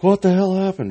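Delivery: mock panicked, high-pitched outburst; high, alarmed imitation; imitated freak-out. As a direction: act out someone starting to freak out, voice way up high. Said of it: "Just starts freaking out".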